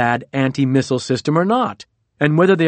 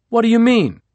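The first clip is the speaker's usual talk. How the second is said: incredulous; 9 semitones higher, 3 dB louder than usual. A narrator's reading. Trump reacting to Mnuchin's explanation.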